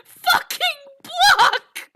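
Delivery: high, loud words through tearful laughter; crying laughing. Real, not acted. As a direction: laugh till you cry while you say it. Hysterical laughter near tears.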